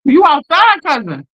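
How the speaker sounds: calling out. Real, not acted. Calling out to cousin.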